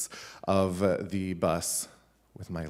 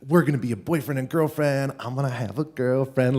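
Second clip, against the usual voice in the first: higher, giddy inner voice; retold boyish excitement; 4 semitones higher than usual. Sixth grader learning his crush likes him, higher-pitched excited gushing. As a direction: gush like a lovestruck sixth grader. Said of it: "I was so excited".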